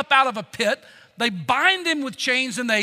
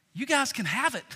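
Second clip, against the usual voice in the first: cool as a cucumber; 5 dB quieter than usual. Acted. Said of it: "Jesus is cool as a cucumber".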